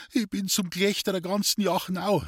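mild tearful cry; weeping lament. Acted. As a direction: wail at her shame, lightly played. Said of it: "weinte sie".

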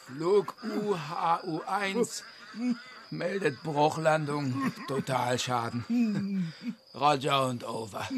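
slow, dazed pilot on the radio; pilot radio report. Acted. Radio report after crash.

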